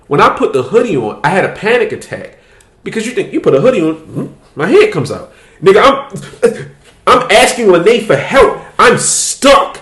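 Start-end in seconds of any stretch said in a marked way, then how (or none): 5.6-9.8 laughing. Real, not acted. Stuck in tight hoodie.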